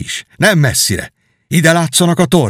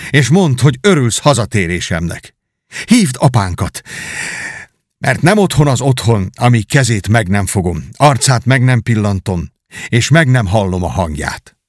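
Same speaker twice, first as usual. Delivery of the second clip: glad cry. Acted. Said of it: "kiáltotta".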